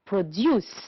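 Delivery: "produce" stressed on DUCE; stress on second syllable. Shown as a demonstration. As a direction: model "produce" with the weight on its last syllable. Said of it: "On the second syllable".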